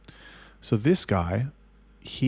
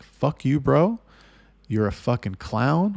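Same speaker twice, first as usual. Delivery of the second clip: retold telling-off, higher at the start; moderately heated insult, retold; furious; 4 semitones higher, 3 dB louder, slower than usual. Going off on the careless chatter, retold fury. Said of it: "And I was furious".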